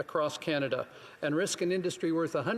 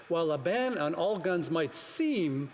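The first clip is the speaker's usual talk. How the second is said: "seem" given a touch of weight at the end; stress on seem. Real, not acted. MP quoting police inspector to the House, stressing "seem". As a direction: lean lightly on "seem". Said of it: "I emphasize the word seem".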